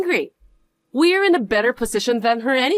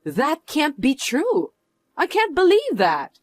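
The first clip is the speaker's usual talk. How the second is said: shocked disbelief; 5 semitones higher than usual. Acted. Learns rival is rich investor.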